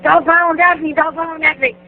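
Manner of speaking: high teasing singsong, mocking her; mocking Knobs. Knobs taunting the only girl, high mock singsong. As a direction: sing it high like a playground taunt. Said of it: "And he's like".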